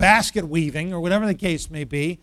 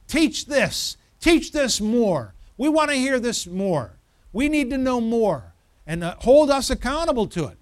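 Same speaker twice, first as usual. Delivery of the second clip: higher, emphatic congregation demanding more; insistent demand; 4 semitones higher than usual. Acted. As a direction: press each demand firmly. Voicing an eager congregation's demands.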